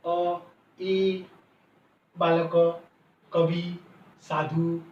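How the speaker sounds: अ, ई said as short, level vowels, one beat each; अ, ई, बालक, कवि, साधु in separate, even-pitched beats. Shown as a demonstration. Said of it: "उसका छोटा होता है उच्चारण".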